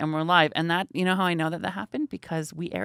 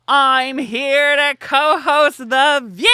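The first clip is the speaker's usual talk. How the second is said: big, high, slow showbiz hello; eager co-host greeting; 9 semitones higher, 10 dB louder, much slower than usual. Retold or imitated. Guest greets Barbara, high and beaming. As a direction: announce yourself as the cheerful new co-host. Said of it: "So I did that whole".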